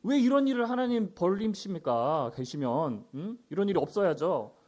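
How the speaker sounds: mock grumbling at God; lightly acted protest; resentful complaint. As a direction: voice Gideon's reproach in everyday words. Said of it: "하나님 원망하는 거예요".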